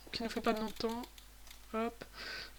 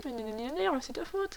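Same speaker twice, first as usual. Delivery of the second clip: imitation moqueuse; 3 semitones higher than usual. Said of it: "Vous allez dire, ouais".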